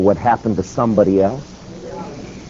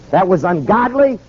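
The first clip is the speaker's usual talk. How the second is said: higher-pitched preacher's reproach; stern rebuke; 5 semitones higher than usual. Retold or imitated. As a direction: scold with righteous conviction. Preacher rebukes the Attorney General.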